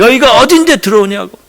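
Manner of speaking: mild mock anger, stress on 어딘데; angry owner. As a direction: retell the owner's outburst, a touch heated, leaning on 어딘데. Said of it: "주인이 막 화를 내는 거예요". (어딘데에 힘준 가벼운 화난 흉내)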